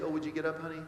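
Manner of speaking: mild mock polite request; gentle suggestion. Preacher mimicking what Jesus didn't say, mock gentle suggestion. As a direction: lightly imitate a sweet, optional suggestion. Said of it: "He wasn't suggesting".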